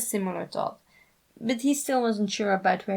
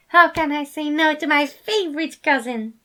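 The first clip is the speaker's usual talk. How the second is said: playful delight; 7 semitones higher, 7 dB louder than usual. A narrator's reading. Remus laughing, playful.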